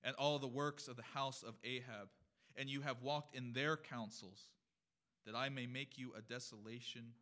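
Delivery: loud, declamatory Scripture reading. Acted. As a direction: proclaim the prophet's words to the congregation. Reads Scripture aloud to congregation.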